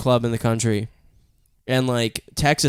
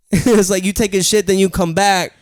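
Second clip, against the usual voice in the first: a light rap voice; impression of a rapper; 5 semitones higher, 4 dB louder than usual. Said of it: "that's my Nas impression".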